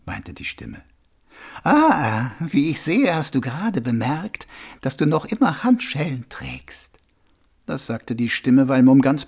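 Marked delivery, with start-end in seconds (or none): 1.6-7.0 lightly amused stranger with lilting pitch; mysterious unseen stranger. Acted. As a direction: point it out calmly, with a lilt. Unseen voice taunts Mumm gently. (geheimnisvoller Fremder, leicht spöttisch)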